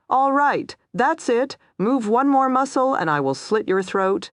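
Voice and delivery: high, forceful warning; angry threat. A narrator's reading. Woman at knifepoint standoff warning her captive, angry threat. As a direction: lay down a furious ultimatum.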